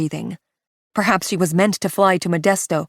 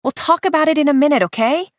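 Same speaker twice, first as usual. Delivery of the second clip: muffled aside; 8 semitones higher, faster than usual. Acted. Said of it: "Her muffled voice comes through".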